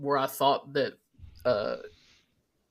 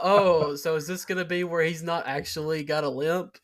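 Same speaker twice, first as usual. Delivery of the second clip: excited realization; 2 semitones higher than usual. Retold or imitated. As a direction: blurt out the realization. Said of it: "and then I thought".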